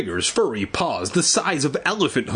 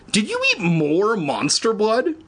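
high, pressing demand; insistent, higher demand; 9 semitones higher than usual. Acted. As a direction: demand an answer from the dog. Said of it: "Evan demanded".

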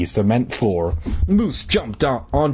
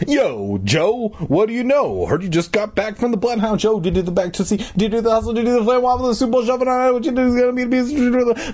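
put-on high-pitched excited boy's bellow; 9 semitones higher, faster than usual. A narrator's reading. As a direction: belt it out as a high, breathless run of patter. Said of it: "Moose bellowed".

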